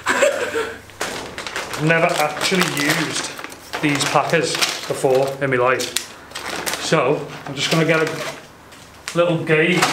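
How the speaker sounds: muffled through a dust mask; talking through mask. Real, not acted. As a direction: speak as if behind a face mask. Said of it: "Sorry, I've got a mask on".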